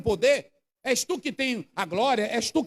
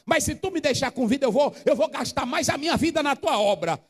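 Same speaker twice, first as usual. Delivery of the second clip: sincere prayer. Shown as a demonstration. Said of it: "Vá pra ele dizendo".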